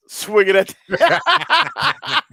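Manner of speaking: words break into laughs; real laughter swallowing the line; laughing. Real, not acted. Cracking up mid-sentence.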